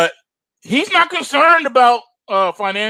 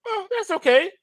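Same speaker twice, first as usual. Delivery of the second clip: mock Powell.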